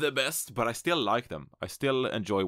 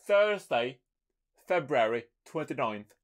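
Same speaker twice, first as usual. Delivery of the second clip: hammed-up British accent, much higher and louder; 7 semitones higher, 5 dB louder, slower than usual. Shown as a demonstration. Host reading the schedule, hammed-up British accent. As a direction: announce the day like a posh British presenter. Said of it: "I gotta do my British accent".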